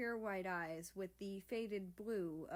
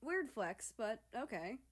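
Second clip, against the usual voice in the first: snickering; 3 semitones higher than usual. Acted. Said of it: "America snickered".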